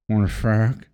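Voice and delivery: slow flat robot voice. Shown as a demonstration. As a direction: say it like a stiff robot. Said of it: "You sound like a robot".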